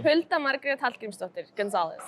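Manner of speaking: "Hulda Margrét Hallgrímsdóttir" in true Icelandic sounds, rolled r and the "tl" sound in "Hallgrímsdóttir", then "Gonzalez"; native Icelandic name. Shown as a demonstration. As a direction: say the full name the way it's said in Iceland. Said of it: "Can you say it one more time?".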